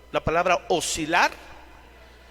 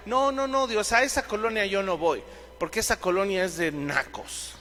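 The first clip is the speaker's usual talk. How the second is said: mock Paul refusing; 2 semitones higher, 3 dB quieter than usual. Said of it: "Pablo constantemente decía".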